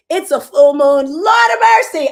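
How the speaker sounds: loud, high burst of exclamation; a loud, high cry of disbelief; excited exclaim. Real, not acted. Exclaiming about the full moon.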